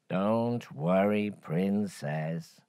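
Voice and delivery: slow gentle frog reassurance; reassuring frog. Acted. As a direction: gently soothe her, slowly.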